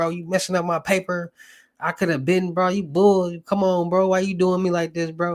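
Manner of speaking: put-on angry griping. Retelling how a caller complained about waiting, imitating fake snapping. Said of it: "fake snapping".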